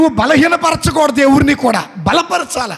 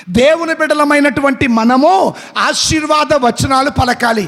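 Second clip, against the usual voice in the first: preaching shout; 2 semitones higher than usual. Real, not acted. Preacher exhorts congregation.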